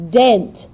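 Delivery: DENT punched loud; firm stress on DENT; stressed syllable. Shown as a demonstration. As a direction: hit DENT hard and short.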